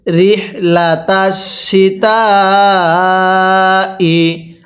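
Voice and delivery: very slow, drawn-out melodic recitation; slow chanted tajweed reading; Quran recitation. Shown as a demonstration. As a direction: recite each syllable long and sung. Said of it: "এবার মিলিয়ে পড়ুন".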